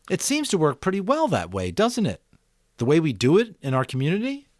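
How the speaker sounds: put-on a boy thinking aloud, picking up speed; eager boy Jonas. Jonas asks.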